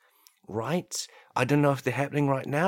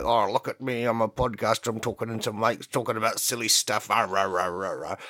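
mock podcaster. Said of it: "the judge starts going like".

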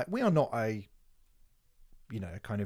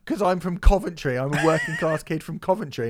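mock humble winner. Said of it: "did the Harry Styles thing and went".

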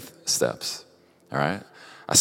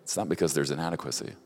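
softer, tender chiding with a little laugh; gentle fatherly voice; 5 dB quieter than usual. Retold or imitated. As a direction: ease off and speak it softly, like a kind father. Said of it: "And Lord just goes".

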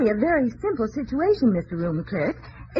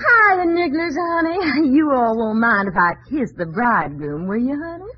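Southern visitor. Pretend. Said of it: "I'll be a visitor from the South".

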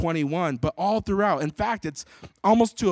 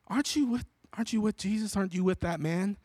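put-on little girl; 3 semitones higher, 4 dB quieter, faster than usual. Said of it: "this little girl".

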